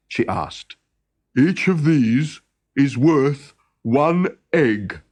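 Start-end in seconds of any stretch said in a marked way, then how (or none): 1.4-5.0 eager cry. Acted. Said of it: "cried Thornogson".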